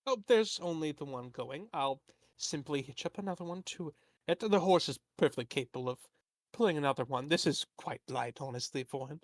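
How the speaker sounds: lightly voiced fussy merchant; a hint of a fretful, rambling tradesman. Merchant NPC rambling excuses.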